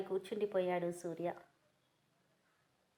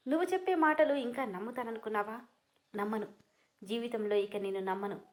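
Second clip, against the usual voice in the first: angry. Acted. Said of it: "కోపంగా".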